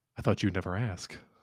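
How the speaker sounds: warm, feminine-sounding tone. Voicing a lipless creature accepting an offered hand: warm feminine voice. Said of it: "a warm, uh, feminine, I guess, voice emanates".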